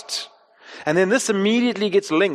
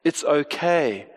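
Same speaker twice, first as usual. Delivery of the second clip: gentle parent at the bedside; soothing parent; 3 semitones lower, slower than usual. Retold or imitated. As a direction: hush a frightened kid back to calm. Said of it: "what Kate and I most often say".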